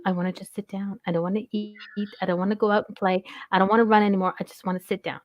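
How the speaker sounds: softly voiced tired dog; fake-talking dog. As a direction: lightly voice a dog that just wants to sit. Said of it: "fake talking, going".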